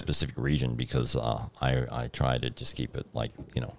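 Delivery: put-on generalized North American accent. Guest explains his acting accent, in an American accent. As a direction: talk like a nondescript American. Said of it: the guest "has turned into an American".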